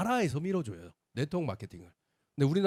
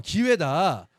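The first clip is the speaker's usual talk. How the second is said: mock yell of a fed-up mother, louder; mother's loud retort; 7 dB louder than usual. Son retelling his mother's loud brush-off, mock yell. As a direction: loudly quote mom cutting him off. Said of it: "이렇게 된 거예요".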